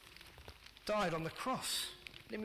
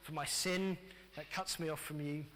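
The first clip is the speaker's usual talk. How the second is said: quiet prayer; 4 semitones lower, 3 dB quieter than usual. Shown as a demonstration. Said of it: "A little prayer that says".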